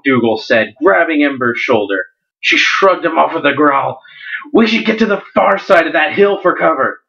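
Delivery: storyteller reading a fantasy novel aloud; dramatic story narration with lightly voiced characters. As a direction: read it like an audiobook, drawing out the suspense. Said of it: "do a little bit of a dramatic reading from it".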